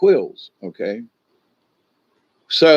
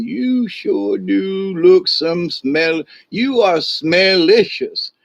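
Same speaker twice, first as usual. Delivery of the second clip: hungry mountain lion; 3 semitones higher than usual. Acted. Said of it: "licking his lips, going".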